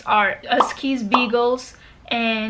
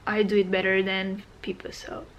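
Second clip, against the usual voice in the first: whispering; 4 semitones lower, 6 dB quieter than usual. Real, not acted. Whispered aside before the intro.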